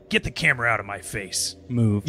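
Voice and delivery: lightly voiced killer, low and fast; a hint of Jason snapping at the cameraman, quick; imitating Jason. Podcaster mimicking Jason at the camera guy, lightly voiced and fast. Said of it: "first Jason did the".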